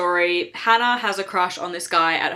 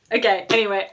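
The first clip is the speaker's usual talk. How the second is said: laughing; faster than usual. Real, not acted.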